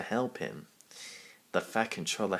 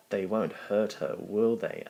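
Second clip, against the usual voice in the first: anxious; 2 semitones higher than usual. Acted. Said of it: "asked Duck anxiously".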